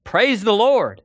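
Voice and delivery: pleading shout. Acted. Old lady shouts her prayer from the porch, high and pleading. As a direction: call out to God, begging for food. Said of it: "and shouted".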